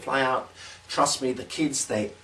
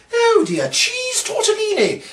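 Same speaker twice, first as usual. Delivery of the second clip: much higher, slow, laughing wail; laughing mock dismay; 5 dB louder, slower than usual. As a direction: ham up the surprise can. Mock dismay, new can.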